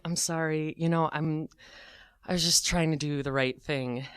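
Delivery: soft, subdued mock apology; meek apology. Teller apologising to the angry man, imitated meek soft voice. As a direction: back down softly, a touch sheepish.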